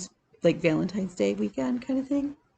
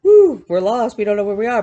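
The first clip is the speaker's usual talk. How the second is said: mock cheer; 2 semitones higher, 9 dB louder than usual. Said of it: "the block is like".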